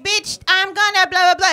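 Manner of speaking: bully rant. Retold or imitated. Bully ranting at the kid, loud and high. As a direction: rant the threat, blah blah. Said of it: "She was like".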